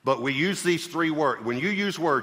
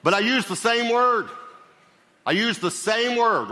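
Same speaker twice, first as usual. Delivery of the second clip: much higher and louder "But I use the same word"; emphatic exclaim; 10 semitones higher, 5 dB louder than usual. Real, not acted. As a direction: drive the point home. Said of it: "emphatic teaching point".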